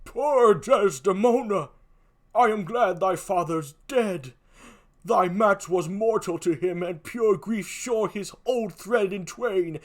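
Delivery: lightly voiced old man, grave; a touch of an old uncle's weight; older uncle voice. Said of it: "give him an older voice".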